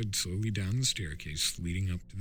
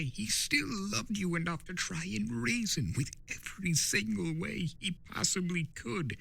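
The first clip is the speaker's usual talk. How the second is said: lightly voiced trickster, a bit higher and playful; Discord, sly spirit of chaos; 6 semitones higher than usual. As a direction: tease him like a know-it-all chaos spirit. Discord accuses Turek.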